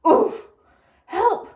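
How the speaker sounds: high, loud squawk for help; Mister Watson crying for help. A narrator's reading. Man squashed by a pig yelps for help. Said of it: "Mister Watson said".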